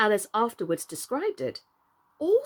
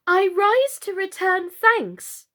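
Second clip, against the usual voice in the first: formal speech; 8 semitones higher, 4 dB louder, slower than usual. A narrator's reading. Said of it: "she really did rise as she spoke".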